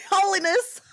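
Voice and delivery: high laughing repeat of holiness; laughing echo. Real, not acted. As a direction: laugh the word back.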